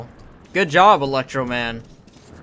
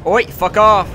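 angry shout; 4 semitones higher, 7 dB louder, slower than usual. Real, not acted. Yelling at attacking enemies.

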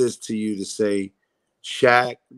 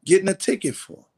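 incredulous; 9 semitones higher than usual. Retold or imitated. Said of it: "So I'm like".

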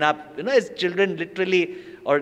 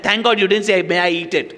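louder, laughing jab; mock relieved teasing; teasing joke; 3 semitones higher, 5 dB louder than usual. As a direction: tease her, laughing. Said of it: "I said".

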